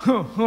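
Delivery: short mock sobs; imitated sobbing. Crying farmer carrying a pot, imitated sobbing. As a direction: act out the farmer's little "hu, hu" cry. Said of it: "అని చెప్పి ఏడుస్తున్నాడు రైతు".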